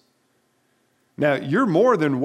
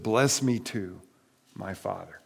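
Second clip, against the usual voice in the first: understated grief; 5 semitones lower, 3 dB quieter than usual. Retold or imitated. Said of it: "not enough suffering ... in my voice".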